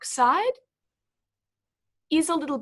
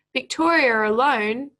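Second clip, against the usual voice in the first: Victoria alone, then a clear stop; pause after Victoria alone; 4 dB louder than usual. Shown as a demonstration. Teacher marking the pause for pupils. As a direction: let Victoria alone land before a pause.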